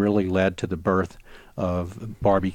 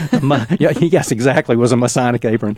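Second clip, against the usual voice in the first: louder, higher, through a real laugh; amused laughing; 4 semitones higher, 7 dB louder than usual. Real, not acted. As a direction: laugh while agreeing with the joke. Host jokes about barbecue apron.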